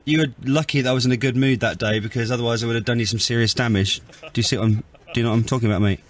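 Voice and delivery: mild, low-key attempt at menace; unthreatening threat. Real, not acted. Son warns driver who abused his mum, mildly threatening. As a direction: threaten him without really sounding threatening. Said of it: "Not massively".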